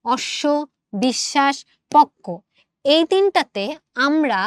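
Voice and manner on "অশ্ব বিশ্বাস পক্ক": অশ্ব, বিশ্বাস, পক্ক as separate words, ব silent; modelled pronunciation. Shown as a demonstration. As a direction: punch পক্ক after a measured অশ্ব, বিশ্বাস. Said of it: "আচ্ছা, উচ্চারণ করো".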